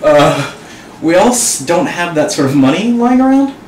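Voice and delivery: shivering from the ice water cold. Real, not acted. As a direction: voice trembling with cold, stuttering. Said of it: "God, this is really cold".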